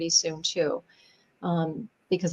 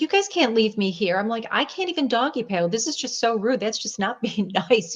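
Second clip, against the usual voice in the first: higher-pitched mock indignation; retelling a complaint with playful outrage; retold protest; 4 semitones higher than usual. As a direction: protest lightly, pitch lifted, amused. Indignant protest to men leaving her.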